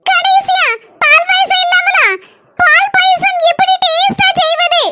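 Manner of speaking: high, slow hammed-up wail; mock wailing. Daughter-in-law wailing over payasam, mock crying. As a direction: sob it out like a melodramatic daughter-in-law.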